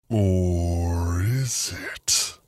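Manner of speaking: slow sinister whisper-tone; creepy voice. Acted. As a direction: drag it out like a creepy robot. Creepy voice repeats the question.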